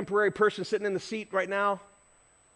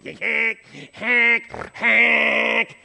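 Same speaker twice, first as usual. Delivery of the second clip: imitated car horn; 3 semitones higher, 7 dB louder, much slower than usual. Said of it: "he just keeps honking".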